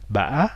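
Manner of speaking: ba avec remontée finale haute; ba au ton du tilde. Shown as a demonstration. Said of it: "avec un accent du tilde". (ba avec accent du tilde)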